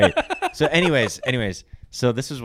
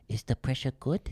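higher, imitated Japanese accent; mock Japanese accent with a rising question; little Japanese voice; 4 semitones higher than usual. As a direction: ask sweetly like a Japanese masseuse. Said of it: "and she'd be like".

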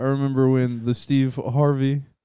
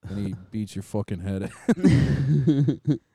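slow menacing mobster; 3 semitones lower, slower than usual. Acted. Menacing mob voice.

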